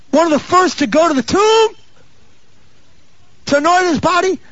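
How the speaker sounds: high, sustained, ringing sermon delivery; full-force preaching. Real, not acted. Preacher praises Mary's devotion to the congregation, impassioned preaching. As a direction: hold every phrase up high and drive it forward.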